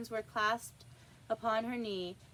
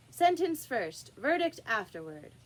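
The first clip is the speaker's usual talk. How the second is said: bossy queen; 2 semitones higher, 4 dB louder than usual. Acted. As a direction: lay down the order. Queen commands court.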